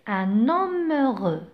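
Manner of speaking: un homme heureux with the liaison N sounded before homme. Shown as a demonstration. Teacher modelling liaison for students. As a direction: link the N into homme, ɛn‿ɔm. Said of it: "le titre du texte".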